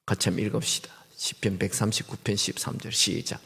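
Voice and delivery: softly cue the congregation; quiet unvoiced prompt; whispered instruction. Real, not acted. Inviting congregation to read.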